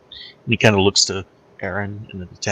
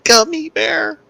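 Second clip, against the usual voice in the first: triumphant punchline; 6 dB louder, slower than usual. Acted. Punchline delivered to the table.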